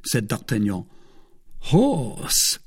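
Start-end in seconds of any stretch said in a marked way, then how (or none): 1.7-2.6 high, falling note of distaste; disgusted. A narrator's reading. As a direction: exclaim it in mild disgust. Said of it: "with a grimace of disgust".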